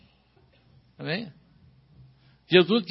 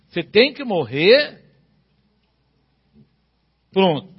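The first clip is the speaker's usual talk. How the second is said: forceful preaching; 6 dB louder than usual. Acted.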